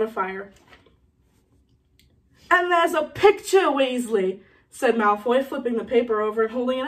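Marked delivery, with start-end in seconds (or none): 2.5-4.4 lightly voiced sneering bully, pitched up at first; slow, drawn-out mock on the first words; taunting schoolboy bully. Malfoy taunts Ron.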